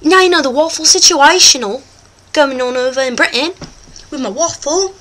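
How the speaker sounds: hammed-up British presenter accent; put-on British accent. The host talks to viewers, put-on British accent. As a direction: play a chatty host in mock British.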